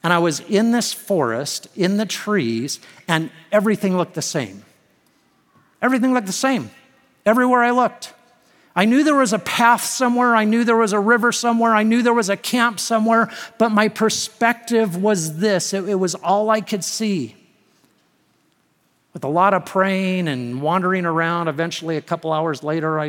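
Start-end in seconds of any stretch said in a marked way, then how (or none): 5.8-17.3 higher, insistent storytelling; heightened preaching. Real, not acted. Preacher reliving being lost in the forest, heightened preaching. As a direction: press each phrase home, pitched up.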